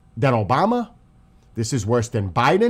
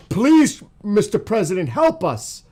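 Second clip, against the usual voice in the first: imitating a desperate plea, much higher and louder; crying out for help; 7 semitones higher, 5 dB louder than usual. Commentator voices Iranians pleading to the president, mock desperate cry. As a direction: cry out like someone begging to be saved. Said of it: "they're crying out".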